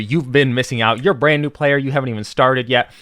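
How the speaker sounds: upbeat, loud sales pitch; infomercial voice. Pretend. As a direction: pitch it like a late-night ad host. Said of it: "Why am I talking like a sa-, uh, infomercial?".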